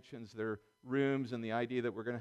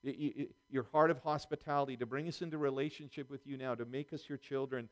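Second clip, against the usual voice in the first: earnest prayer. Acted. Pastor praying for the congregation, earnest and humble. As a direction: pray humbly over the congregation.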